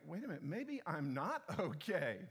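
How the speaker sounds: dawning realization with a laugh. Retold or imitated. Pastor realizes he is not fine, laughing through it. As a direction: catch yourself mid-laugh. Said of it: "you go".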